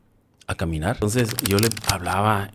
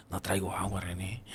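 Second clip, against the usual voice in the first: hushed admission; 13 dB quieter than usual. Retold or imitated. Telling dying friend no water.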